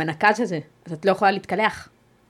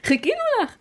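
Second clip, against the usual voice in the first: much higher, sing-song staff voice; sweet nurses. Retold or imitated. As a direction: imitate the kind nurses greeting her. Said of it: "אז הם אומרים". (חיקוי קול גבוה ומתוק של האחיות)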